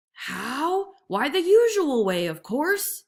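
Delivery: as if it were obvious; scornful tiger. A narrator's reading. Tiger answers.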